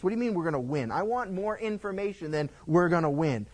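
pushy, insistent demand for details; a touch of a grumpy king demanding answers. Acted. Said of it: "Ahab turns around and goes".

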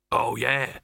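a touch of doubt; uncertain. A narrator's reading. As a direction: agree without being sure. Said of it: "said Dibbler uncertainly".

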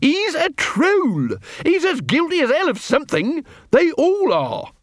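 high, strained, insistent hiss; hissed insistence. A narrator's reading. Captain argues troll's guilt to corporal, hissing. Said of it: "hissed Quirk".

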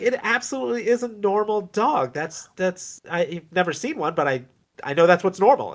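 high, earnest defensive voice; mock Tendy. Host imitating Tendy defending the dog, high and flustered. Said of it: "And Tendy's like".

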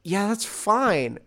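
high protesting. Retold or imitated. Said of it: "I'm like".

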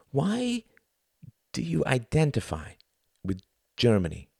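softened question, starting high and settling; calmer. A narrator's reading. Klaus asks Tom about identity, calmer now. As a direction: ease off into measured questioning. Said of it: "his voice calmer".

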